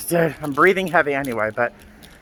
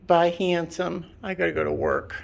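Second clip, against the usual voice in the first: higher sing-song goodbye to the pet; pet talk goodbye; 4 semitones higher, 3 dB quieter than usual. Real, not acted. Owner repeating goodbye to her cat, in a higher sing-song. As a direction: coo it once more.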